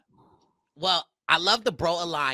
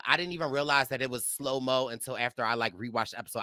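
usual speaking voice

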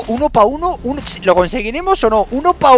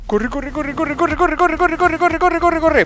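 rising panic; 7 semitones higher, slower than usual. Real, not acted. Gamer running from trolls, chanting himself on, frantic. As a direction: chant "corre" faster and climbing higher.

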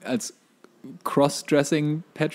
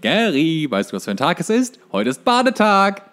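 SpongeBob voice; 7 semitones higher, 4 dB louder than usual. Retold or imitated. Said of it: "wie Gary verhindert, in die Badewanne".

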